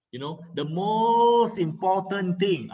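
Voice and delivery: slow, even, no stress on any word; flat delivery, nothing stressed; flat monotone. Shown as a demonstration. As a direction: say it mild with no emphasis. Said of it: "there's no, uh, emphasis on the word there".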